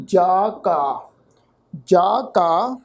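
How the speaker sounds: "ਜਾ ਕਾ" with long aa and no nasal; careful model of "ਜਾ ਕਾ" with pure vowels; oral vowel. Shown as a demonstration. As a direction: say "ਜਾ" open, free of nasalisation. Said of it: "ਇਸ ਸ਼ਬਦ ਦਾ ਪਾਠ ਉਚਾਰਨ ਕਰਾਂਗੇ".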